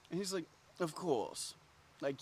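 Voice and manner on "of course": lightly voiced smooth host, softer; a hint of soft French suavity; debonair French host. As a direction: grant it graciously as a French maître d'. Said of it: "you know, very French debonair".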